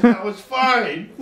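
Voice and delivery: slow, drawn-out assurance; slow, confident now it's fine. Retold or imitated. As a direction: stretch it out slowly. Salesman's punchline fix.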